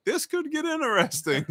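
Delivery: imitating himself, bemused; wry aside. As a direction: squeak it out like an uneasy joke. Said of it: "I was like".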